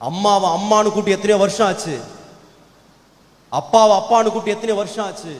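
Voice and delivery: emphatic sermon rebuke in matching phrases; forceful reproach. Real, not acted. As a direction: drive each accusation home, loud and insistent. Preacher reproaches the young listeners.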